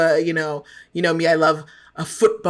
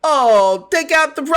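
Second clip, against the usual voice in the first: higher-pitched, faltering attempt at British; bad British accent; 7 semitones higher than usual. Shown as a demonstration. Co-host demonstrating her accent on request, bad British accent. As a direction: try a hammed-up British accent and give up. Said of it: "Anytime I try to be like".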